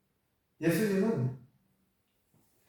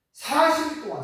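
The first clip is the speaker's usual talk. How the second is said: ordinary delivery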